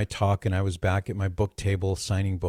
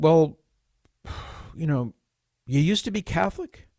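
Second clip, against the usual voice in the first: gentle question; 7 semitones higher than usual. Retold or imitated.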